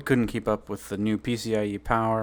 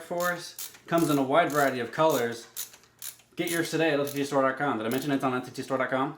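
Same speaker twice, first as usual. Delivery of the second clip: ad read; 2 semitones higher than usual. Pretend. Mock ad read, store plug.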